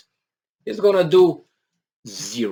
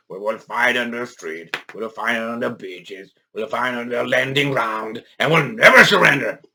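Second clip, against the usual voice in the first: a hint of Churchill's wartime speech; Churchill impression. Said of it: "be like Churchill".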